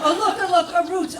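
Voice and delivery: high, loud, excited put-on gushing; mock vegetarian delight. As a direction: gush like a hippie spotting food. Mocking vegetarians foraging.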